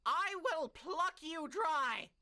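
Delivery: loud, high, slow threat; slow menacing threat. Acted. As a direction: drag out the threat with fury. Edward threatening the guildmaster.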